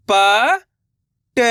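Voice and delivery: "प" held, then "ट" short, on its own; letter by letter. Shown as a demonstration. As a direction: pause between the sounds "प" and "ट". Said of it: "एक अक्षर का उच्चारण करके".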